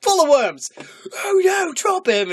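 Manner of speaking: loud, high mock outcry; odgrywana postać. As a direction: play it up, high and shouted. Acting out troll scene.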